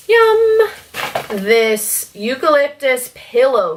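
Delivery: high excited squeal; delighted yum. Real, not acted. Smelling new soaps.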